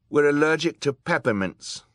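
high, loud, clear answer; young boy. A narrator's reading. Klaus giving the villain the answer, high loud boy's voice.

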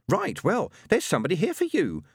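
medium's voice. Acted. Madame Tracy to Scroggy.

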